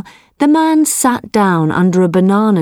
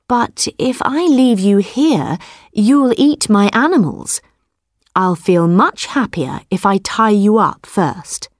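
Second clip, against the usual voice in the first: quick-thinking farmer; 3 semitones higher than usual. Acted. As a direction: talk him round with a cunning smile. Man wants to tie the tiger.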